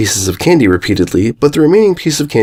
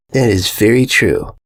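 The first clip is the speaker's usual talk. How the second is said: slow Derpy voice; slower than usual. Acted. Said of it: "said Derpy".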